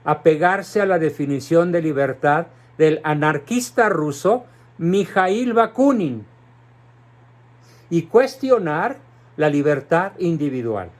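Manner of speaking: measured repeat, slowing onto the name; deliberately slow. Shown as a demonstration. Commentator making listeners note the Russian anarchist, deliberately slow. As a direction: spell it out phrase by phrase, stretching the final name. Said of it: "lo voy a decir despacito".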